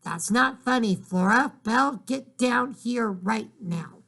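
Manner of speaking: stern shout. Acted. Mother ordering her daughter downstairs, stern shout. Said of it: "her mother shouted".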